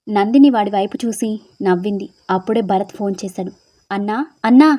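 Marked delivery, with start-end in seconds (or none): 3.9-4.7 a panicked call of brother over the phone; scared shouting. A narrator's reading. Henchman phoning his boss in terror, frightened calling. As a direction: cry out in fear, voice jumping up. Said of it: "అని అరుస్తూ భయపడుతూ".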